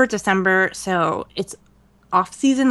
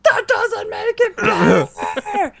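slow, high whiny protest; imitating her own pained reply; exasperated retort; 12 semitones higher, much slower than usual. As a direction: drag it out in mock despair. Retorting to friend's consolation.

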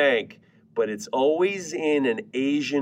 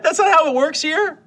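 mock stern; 14 semitones higher, 4 dB louder than usual. Real, not acted. Exasperated at commenters.

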